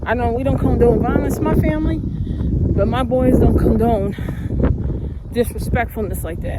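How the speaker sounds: loud, heated, slowing to hammer the words; angry outburst. Real, not acted. Vlogger venting at the men who harassed her, loud and angry.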